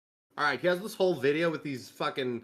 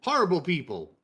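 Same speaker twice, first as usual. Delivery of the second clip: mock whiny tourist; 4 semitones higher, 3 dB louder than usual. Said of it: "he's like".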